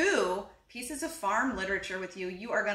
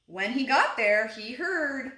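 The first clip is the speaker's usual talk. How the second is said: animated picture-book read-aloud; unhurried storybook telling; story narration; 4 dB louder than usual. A narrator's reading. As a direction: read to little children, stressing key words.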